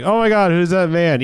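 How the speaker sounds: mock freak-out. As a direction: act out an overblown startle. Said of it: "who has this kind of fucking freak out?".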